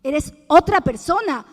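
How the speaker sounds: emphatic slow repeat of the people's words. Retold or imitated. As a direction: say "otra" slow and loud, hammer it home.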